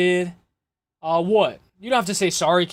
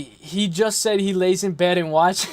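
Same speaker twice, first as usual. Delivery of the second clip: laughing. Real, not acted. Laughing at chat message.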